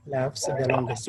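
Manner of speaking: "laughs the longest" easing down to a finish; falling intonation. Shown as a demonstration. Teacher repeating the proverb's completion, falling intonation. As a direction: let the pitch drop through "longest". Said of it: "said with a falling intonation".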